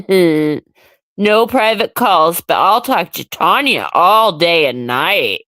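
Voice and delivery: mock a smug man's remarks; low, droning taunt of someone else; mocking imitation. Imitating White Buffalo sitting back and talking, mocking. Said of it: "sit back and say".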